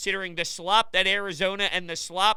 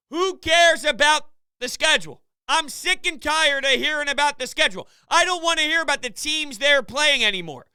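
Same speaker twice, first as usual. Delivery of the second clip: higher-pitched, exasperated outburst; fed-up rant; 5 semitones higher than usual. Real, not acted. Host sick of hearing about the schedule, fed up.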